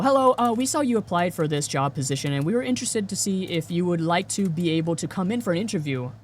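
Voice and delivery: brisk, polished recruiter voice; a lightly voiced professional caller. Shown as a demonstration. Showing how a real recruiter should sound on the phone. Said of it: "that's exactly how it should sound".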